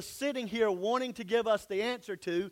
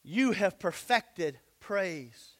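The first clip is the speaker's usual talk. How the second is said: solemn slow; 3 semitones lower, much slower than usual. Real, not acted. Solemn scripture line.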